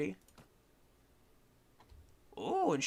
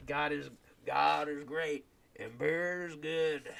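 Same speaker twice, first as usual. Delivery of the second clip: reading aloud; slower than usual. Acted. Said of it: "Let me read that".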